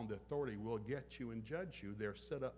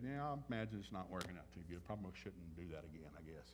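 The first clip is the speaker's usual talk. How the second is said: much softer and lower, fading away; soft gentle reply; 6 semitones lower, 6 dB quieter than usual. Retold or imitated. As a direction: ease off gently like a patient parent.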